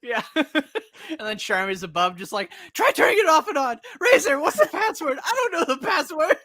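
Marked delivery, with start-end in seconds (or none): 2.7-6.4 high, loud babbling cries; mock frantic panic. Charmy flailing above the locked console, mock frantic panic. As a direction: shout it in comic alarm, pitch way up.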